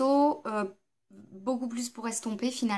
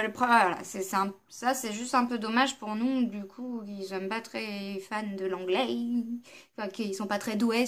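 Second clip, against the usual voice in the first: ordinary delivery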